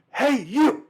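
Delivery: high, loud call-out; imitated yell to stop someone; retold cop's shout. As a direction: holler it like a cop calling someone down the street. Retold cop yelling again.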